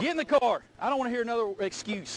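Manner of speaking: loud fed-up command; angry order. Real, not acted. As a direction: shut down the excuse. Trooper cutting off excuses.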